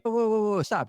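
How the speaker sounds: halting him. Retold or imitated. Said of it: "And he jumps in and I'm like".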